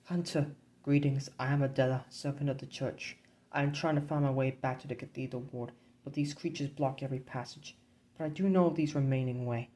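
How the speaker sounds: a hint of a polite young churchwoman; young woman voice. GM voices Adela, church servant.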